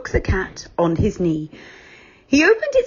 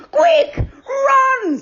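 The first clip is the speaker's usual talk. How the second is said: much higher, alarmed call; urgent shout; 3 dB louder than usual. Acted. Moonface urging the children to run, shouting. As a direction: yell at the others to flee. Calling out.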